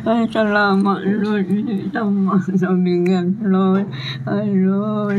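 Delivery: crying thanks. Real, not acted. Elderly mother crying, thanking.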